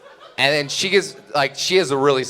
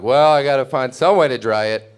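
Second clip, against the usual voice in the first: put-on determined drunk; 4 dB louder than usual. Drunk self quoted, determined.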